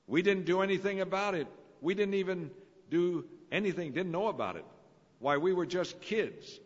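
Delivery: high, loud, desperate protest; pleading outcry. Acted. Sons of Saul protesting their innocence, high loud outcry. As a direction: cry out your innocence as a wronged son. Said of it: "they would no doubt say".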